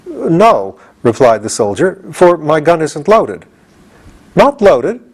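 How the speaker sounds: timid soldier. Acted. The soldier explains his empty gun, high. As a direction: explain sheepishly.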